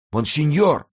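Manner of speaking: «Монсеньор!» громко и намного выше, с падением в конце; мольбой выкрикнуть «Монсеньор!»; восклицание. A narrator's reading. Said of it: "воскликнул нищий". (нищий на коленях взывает «Монсеньор!»)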